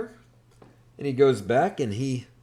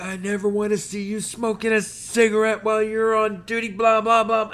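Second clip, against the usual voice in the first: higher, louder stern scolding; drill sergeant scolding; 9 semitones higher, 5 dB louder than usual. Retold or imitated. Drill instructor scolding recruit caught smoking, barking. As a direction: lay into the recruit. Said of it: "he starts screaming at me".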